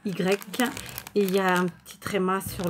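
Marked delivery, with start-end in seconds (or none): 0.1-0.6 each letter of B E A D Y given its own beat; spelling slowly. Shown as a demonstration. Vlogger spells a channel name slowly for viewers. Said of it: "c'est B E A D Y".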